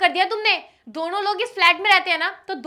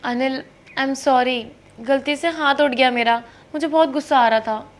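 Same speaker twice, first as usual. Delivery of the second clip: wife apologizes after hitting her husband; remorseful apology; 5 semitones lower than usual. Acted. Apologizes after slapping him.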